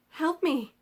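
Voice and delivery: high, loud cry for help; yelled plea. A narrator's reading. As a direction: shout it across the river, desperate. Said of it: "he yelled again".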